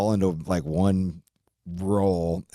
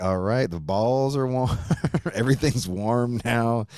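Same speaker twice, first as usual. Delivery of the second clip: laughing; 4 semitones higher than usual. Real, not acted. Laughing while telling the punchline.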